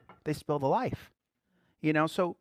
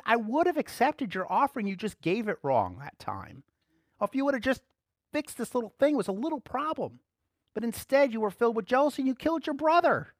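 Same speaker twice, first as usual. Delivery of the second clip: God correcting Cain; 8 semitones higher than usual. Retold or imitated. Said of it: "He said".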